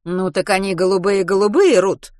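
a touch of irritation, pressing the point; slightly irritated. A narrator's reading. Mrs Pomeroy repeats her question to Ruth, mildly irritated. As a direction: repeat it a little impatiently. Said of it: "чуточку раздражённо повторила".

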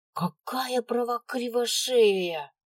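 put-on high, slow, indignant child voice; indignant girl voice. A narrator's reading. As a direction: whine it in outrage. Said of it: "возмутилась рыжая".

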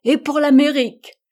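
high, loud joyful cheer. A narrator's reading. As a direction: top the cheer with your own. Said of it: "reprit le docteur".

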